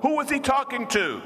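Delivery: full-force preaching; preaching climax. Acted. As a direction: drive it home to the congregation.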